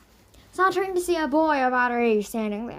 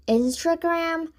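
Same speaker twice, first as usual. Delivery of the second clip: incredulous; 5 semitones higher, 6 dB louder, slower than usual. Acted. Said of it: "Sungha panted".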